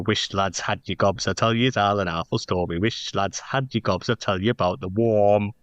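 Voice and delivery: Geordie accent, lightly put on for the chorus; a mild affected northeastern folk voice. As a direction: lean into broad northeastern vowels. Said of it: "in a particular accent".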